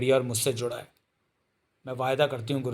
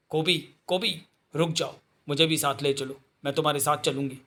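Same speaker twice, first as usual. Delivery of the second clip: Jane calling; 2 semitones higher than usual. Acted. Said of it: "जैन की आवाज़ें".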